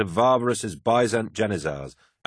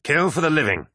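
high, forceful rallying cry; battle oath; 9 semitones higher, 4 dB louder than usual. Acted. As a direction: lead the warriors' pledge. Captain leads a battle oath.

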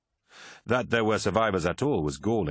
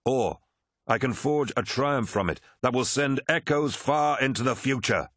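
raised, oratorical warlord building in conviction; proud Horus; 4 semitones higher than usual. Acted. Horus tells his officers why he leads, proud. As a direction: declare your record of triumph grandly.

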